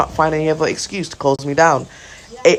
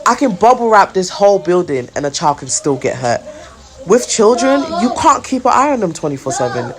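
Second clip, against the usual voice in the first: angry retort; 5 semitones higher than usual. Retold or imitated. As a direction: let the frustration push the pitch up as you lecture her. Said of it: "so angry".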